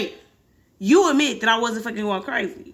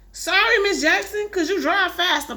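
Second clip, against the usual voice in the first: nervous plea; 8 semitones higher than usual. Acted. Nervous goat boy pleads.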